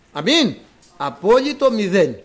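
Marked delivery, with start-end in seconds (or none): 0.1-0.6 κήρυγμα με πάθος; fiery preaching. Acted. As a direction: hammer home absolute zero to the brothers. Preaching at full force.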